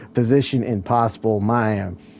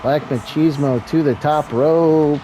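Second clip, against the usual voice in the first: rising, higher commentator call; play-by-play call; 5 semitones higher, 3 dB louder than usual. Real, not acted. Wrestling commentator calls a climb to the top rope, excited play-by-play. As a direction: call the big move with building excitement.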